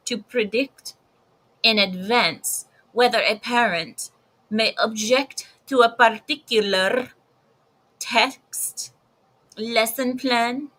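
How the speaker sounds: mock Spanish accent; Sonia Sotomayor. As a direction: read it out in a put-on Spanish accent. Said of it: "here's my best Spanish accent".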